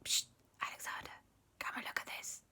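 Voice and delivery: soft unvoiced whispering; whispered. The two boys whisper to each other about the hidden paper. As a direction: hush it so nobody hears.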